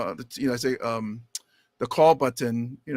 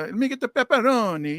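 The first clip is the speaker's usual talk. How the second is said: higher, mock Italian "pepperoni"; affected foreign pronunciation; 6 semitones higher than usual. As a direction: order with a showy Italian "pepperoni". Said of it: "wouldn't that sound weird".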